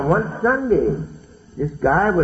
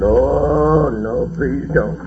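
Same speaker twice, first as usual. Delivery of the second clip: frightened pleading; 4 semitones higher, much slower than usual. Retold or imitated. Drunk patient begs the nurse not to inject him: frightened pleading. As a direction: beg the nurse not to give the shot. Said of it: "I pleaded to her not to give me that".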